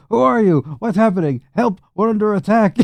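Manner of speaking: high-pitched panicked villagers; hammed-up, high cries of alarm; mock screaming. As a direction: play a startled crowd crying for help. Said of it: "they're screaming".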